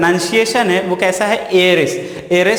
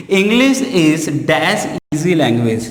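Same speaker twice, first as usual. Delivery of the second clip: English is dash easy language को बहुत धीरे, हर शब्द अलग करके; सवाल की तरह धीरे-धीरे पढ़ो; slow dictation; 2 semitones lower, much slower than usual. Shown as a demonstration. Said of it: "easy के पहले लगाना है". (छात्रों को धीमे स्वर में वाक्य लिखवाना)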